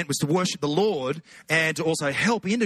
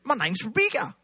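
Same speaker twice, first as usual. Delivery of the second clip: put-on higher New Zealand accent, rising ending; mock Kiwi accent; 6 semitones higher than usual. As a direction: do a Kiwi introducing herself. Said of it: "it's how Kiwis talk".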